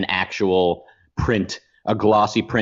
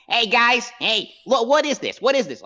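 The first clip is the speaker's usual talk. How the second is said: Trump impression; 12 semitones higher than usual. Shown as a demonstration. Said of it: "obnoxious, high-pitched".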